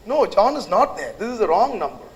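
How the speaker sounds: a touch of annoyance at a wrong-number caller; lightly voiced irritated man on the phone. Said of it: "clearly that guy is irritated".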